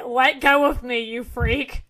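a toned-down retake of an outburst; mildly indignant, barely acted; mild protest. Repeats the girl's protest more mildly.

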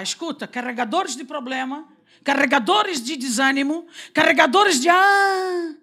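building from firm to a loud cry; rebuking shout. Pretend. Preacher rebuking the carriers of problems, building to a shout. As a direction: command the burdens, rising to a shout.

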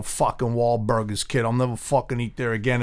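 lightly put-on Boston accent; thick Bostonian accent. Angry customer walking out of a burger place, thick Boston accent. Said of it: "talking with a real thick Bostonian accent".

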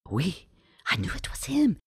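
high, excited gossiping French patrons; hushed, high chatter of onlookers; whispering patrons. A narrator's reading. Patrons whispering to each other about the jester, high and excited. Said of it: "the patrons whispering".

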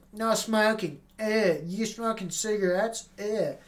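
mock a casino worker telling you off; casino staff voice. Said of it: "it's like".

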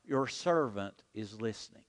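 leading the congregation line by line; slow, deliberate unison prayer; preacher leading a repeated prayer; call and response. Shown as a demonstration. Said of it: "Say that with me".

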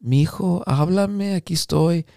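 imitating a downcast mother's voicemail; subdued, slightly softened plea in Spanish; depressed mom. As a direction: leave a mock-gloomy message for your son. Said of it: "she sounded depressed".

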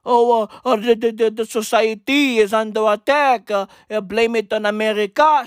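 flustered stuttering parody; stammering mock Frenchman. Mocking French critics, a flustered stammer. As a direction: stammer it like a panicked official.

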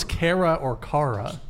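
"Kara or Kara" with two different first vowels; two pronunciations contrasted. Retold or imitated. Host recalling a date's name, "Kara" pronounced two ways. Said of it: "how to pronounce her name".

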